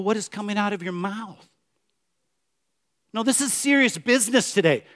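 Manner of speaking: normal talking voice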